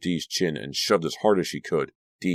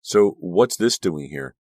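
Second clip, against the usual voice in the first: angry; 7 dB louder, slower than usual. Acted. Narrator voices Danielle's angry demand.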